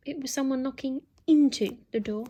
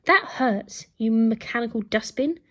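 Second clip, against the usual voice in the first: louder, indignant shout; angry shout; 5 dB louder than usual. Acted. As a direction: yell at the robot. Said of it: "shouted Alfred".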